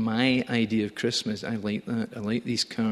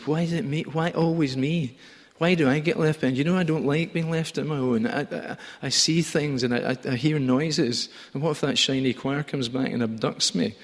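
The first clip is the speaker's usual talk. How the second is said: higher, plaintive voice of the shepherd left alone; whiny left-behind shepherd; 5 semitones higher than usual. Acted. Shepherd left with the sheep complaining, higher and plaintive. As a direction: moan about being left behind, higher. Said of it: "I picture a guy who's saying".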